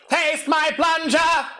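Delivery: high, shouted robotic Dalek. Acted. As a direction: chant it like a Dalek.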